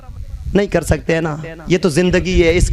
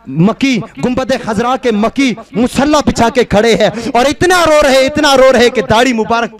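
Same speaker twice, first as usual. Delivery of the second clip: impassioned preaching; 3 semitones higher, 5 dB louder than usual. Acted. Preacher describing the Prophet's tears, impassioned preaching. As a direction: swell to a peak, then ease down.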